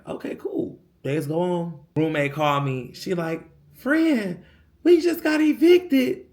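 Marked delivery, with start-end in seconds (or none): 0.1-0.8 breathy whispered reply. Retold or imitated. Answering the inspector under the breath, whispered. 3.7-6.2 higher, slowed mock distress; mimicking roommate. Roommate calling the friend about the eviction, mock distressed. Roommate phoning with bad news.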